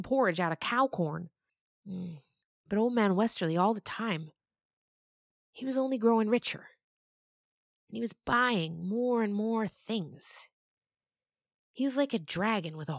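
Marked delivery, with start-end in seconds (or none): none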